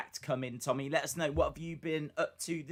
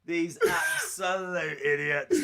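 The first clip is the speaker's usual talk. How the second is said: scornful spit-lab guy; 4 dB louder, slower than usual. Retold or imitated. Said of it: "he's just looking at them going".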